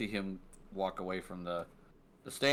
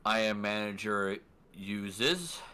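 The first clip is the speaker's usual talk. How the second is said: slow, deliberate self-introduction; lightly voiced manager; slower than usual. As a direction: introduce yourself slowly as the manager. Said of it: "looks at Jake and goes".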